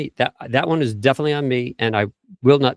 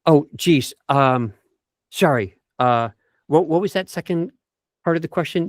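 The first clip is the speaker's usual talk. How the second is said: exaggerated flustered apology; 3 semitones higher than usual. Shown as a demonstration. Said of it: "I want to exaggerate the point".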